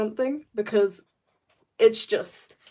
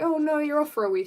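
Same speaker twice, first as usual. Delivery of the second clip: raised pitch quote; higher mock insisting; 6 semitones higher, faster than usual. Classmates' quote, retold.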